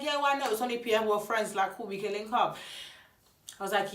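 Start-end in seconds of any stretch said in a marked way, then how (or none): 0.0-2.6 retold eager yes, pitched higher; brightly agreeing, higher up; happily keen to link up, voice lifted. Happy Pierre is messaging.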